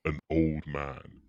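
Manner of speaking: put-on old man filter. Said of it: "this last one is supposed to be".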